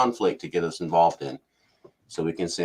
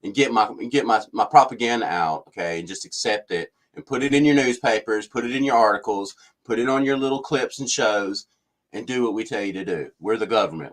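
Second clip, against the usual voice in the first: mock-snippy official, pitched up and loud at first, then settling; 3 semitones higher, 5 dB louder than usual. Government spokesman telling a reporter to shut up, snippy. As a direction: imitate a bossy official laying down the law. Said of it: "he's already getting snippy".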